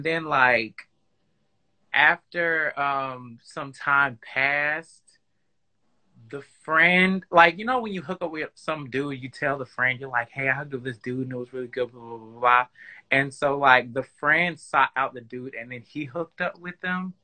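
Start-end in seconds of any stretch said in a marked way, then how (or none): 6.3-17.1 muffled speech, words dampened. Real, not acted. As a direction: talk as if through a covered mouth. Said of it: "this story is kinda muffled".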